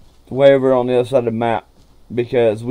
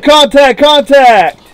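urgent callout, raised voice; alarm shout; 10 semitones higher, 6 dB louder, slower than usual. Real, not acted. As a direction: warn your partner sharply. Calling out enemy.

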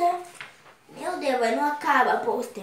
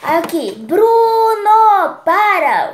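drawn-out loud, high call; exasperated yell; 5 semitones higher, 9 dB louder, much slower than usual. Acted. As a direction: yell it like scolding someone, stretching the name. Acting out Felipe's lines from comic.

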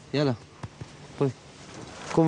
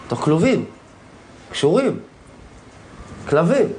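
each word shouted louder, raw with anguish; anguished shouts; 4 dB louder than usual. Real, not acted. A dog owner cries out that his dogs are caged and tied, real anguished shouting.

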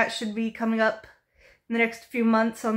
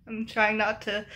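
holding back tears; 4 dB quieter than usual. Real, not acted. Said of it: "I'm trying not to cry".

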